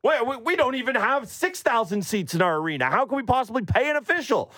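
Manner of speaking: hammed-up pleading from a poor club; small-market club complaining about paying refs, high and whiny; mock whiny small team.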